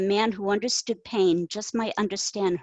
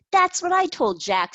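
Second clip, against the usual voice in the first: high, loud burst of excitement; excited squeal of agreement; squeaky excitement; 11 semitones higher, 5 dB louder than usual. A narrator's reading. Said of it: "her voice squeaked in her excitement".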